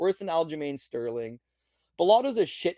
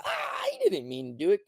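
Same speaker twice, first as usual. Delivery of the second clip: high hammed-up bumpkin ref voice; country bumpkin ref. Clueless ref excusing the kick, high hammed-up voice. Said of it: "country bumpkin ref".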